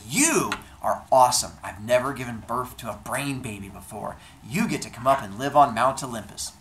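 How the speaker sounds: a touch of gushing excitement; excited praise. Acted. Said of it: "Zeus is so excited".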